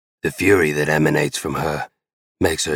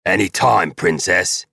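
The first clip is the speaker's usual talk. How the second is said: louder, teasing call back; yelling back; 3 semitones higher, 4 dB louder than usual. Acted. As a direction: call it across the house, teasing. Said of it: "yell in response".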